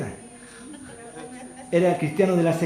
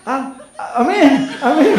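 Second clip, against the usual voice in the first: embarrassed laughing reply; sheepish laughing amen; 4 semitones higher, 5 dB louder, slower than usual. Retold or imitated. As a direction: answer with a shy laugh, half loud. Embarrassed worker answering.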